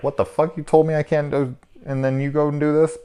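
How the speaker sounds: high-pitched, outraged disbelief; indignant protest. Acted. Reviewer plays the son confronting hypocrite dad, indignant.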